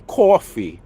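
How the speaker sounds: mock Brooklyn Italian drawn-out "coffee"; Brooklyn Italian accent. Streamer protests friend's imitation, in exaggerated Brooklyn Italian accent. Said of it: "making me sound like ... a Brooklyn Italian".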